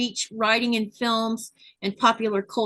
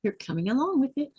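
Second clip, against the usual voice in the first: monster voice; 4 dB quieter, faster than usual. Pretend. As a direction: growl it like a monster. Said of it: "Monster voice".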